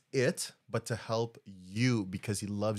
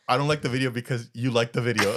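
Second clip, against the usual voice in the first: laughing mock quote; 5 dB louder, faster than usual. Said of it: "when you're like".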